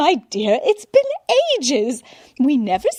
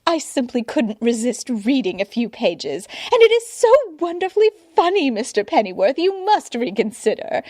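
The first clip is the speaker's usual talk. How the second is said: much higher and louder, breathless gushing; an admirer who can't contain herself; gushing society woman; 7 semitones higher, 6 dB louder than usual. A narrator's reading. Society woman gushing at the butler, high and loud. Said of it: "the woman continued to gush".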